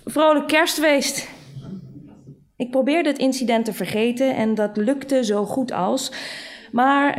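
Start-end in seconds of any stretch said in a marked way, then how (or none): 0.0-1.3 awkward, high, drawn-out well-wishing; mock-cheery, higher and slower; uneasy. A narrator's reading. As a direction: force out a slow, uncomfortable festive farewell. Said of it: "zei hij ongemakkelijk".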